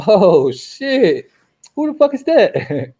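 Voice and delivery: loud, high-pitched retold alarm; shocked outcry. Storyteller reliving seeing the devil, loud high shocked cry. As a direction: blurt it in mock horror, laughter close behind.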